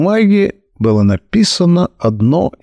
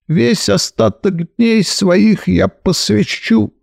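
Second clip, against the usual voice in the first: nasal whine; 6 semitones higher than usual. Acted. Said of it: "загнусавил".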